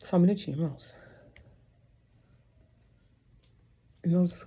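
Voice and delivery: panting, breathless. Pausing a Bible story to address the brothers listening, out of breath. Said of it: "eu tô ofegante".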